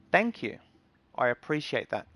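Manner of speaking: polite, unsarcastic appreciation; sincere thanks. Shown as a demonstration. Streamer showing viewers how to thank a bully, sincere. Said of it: "don't say it sarcastically".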